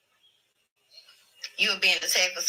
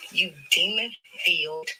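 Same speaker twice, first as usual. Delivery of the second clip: mock rebuke; slower than usual. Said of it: "called him a demon".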